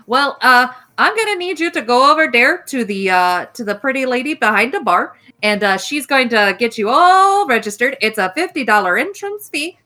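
put-on hostess in a lightly done Wisconsin accent; a hint of upper Midwest folksiness, don't you know. Game master voicing the hostess in a Wisconsin accent. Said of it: "Wisconsin accent".

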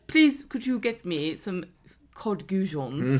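slow, carefully spaced mock-refined request; hammed-up politeness, drawn out slowly; mock over-polite. Guest ordering fish fingers by phone, mock over-polite.

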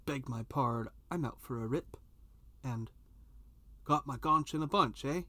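hammed-up mock Canadian accent; fake Canadian accent. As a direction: tease her in a bad Canadian accent. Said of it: "in this horrible fake Canadian accent".

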